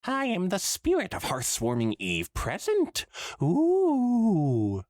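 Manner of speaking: put-on high, hammy Trottingham ghost accent; spooky Trottingham accent, ending in a high loud ooh; bad Trottingham accent. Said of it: "in the bad Trottingham accent".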